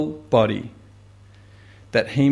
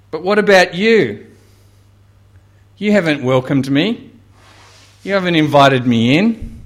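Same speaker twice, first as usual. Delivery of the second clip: confronting Simon; 3 dB louder than usual. Acted.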